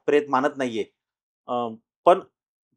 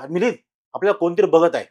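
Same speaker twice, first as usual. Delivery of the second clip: mildly raised, louder mock yell; retold cry out; 3 semitones higher, 5 dB louder, faster than usual. Wife calling husband about someone watching, retold cry out. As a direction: lightly imitate an alarmed call. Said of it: "ती ओरडली".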